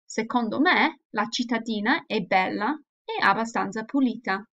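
reading both parts with lively Italian intonation; expressive dialogue reading. Shown as a demonstration. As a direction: act out the dialogue with clear expression. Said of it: "hear the pronunciation and also the intonation".

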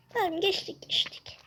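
breathless whispered relief. Real, not acted. Gamer to viewers at a tense moment, relieved whisper. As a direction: whisper so you don't jinx it.

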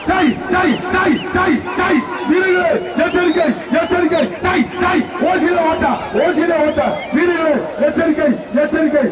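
shouted warning over a loudspeaker; through a megaphone. Real, not acted. Warning bull tamers over loudspeaker. (ஒலிபெருக்கியில் உரத்த எச்சரிக்கை)

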